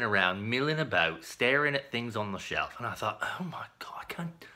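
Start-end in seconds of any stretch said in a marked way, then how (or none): 3.2-4.4 whispered inner panic; panicked whisper. Retold or imitated. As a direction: breathe it like a panicked thought. Panicked inner thought in the aisle.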